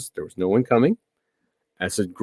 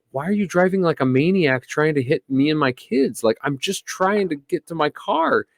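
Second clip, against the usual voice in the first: exasperated retort; 5 semitones higher than usual. Retold or imitated. Retold argument with Karen.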